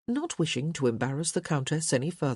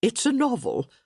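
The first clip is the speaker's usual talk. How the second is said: dry; 7 semitones higher, 4 dB louder than usual. A narrator's reading. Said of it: "Lady D said dryly".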